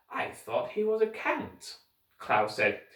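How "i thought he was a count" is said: put-on boy voice. Klaus voiced.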